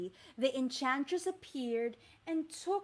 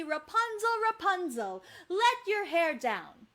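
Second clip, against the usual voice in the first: calling up; 4 semitones higher, 4 dB louder than usual. Shown as a demonstration. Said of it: "Can you say".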